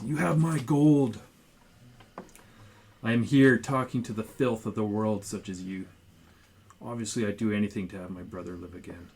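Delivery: a desperate elf stammering out his plea. Acted. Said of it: "And Rotasso stammered".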